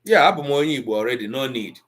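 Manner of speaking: quoting a smug average Igbo speaker; dismissive quote. Retold or imitated. Lightly mocking an average Igbo person waving it off. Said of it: "That's what an Igbo, an average Igbo person will say".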